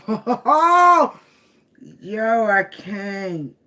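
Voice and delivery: loud, high burst of laughter; can barely get the words out for laughing; real helpless laughter, slow; cracking up. Real, not acted. Cracking up at the reading.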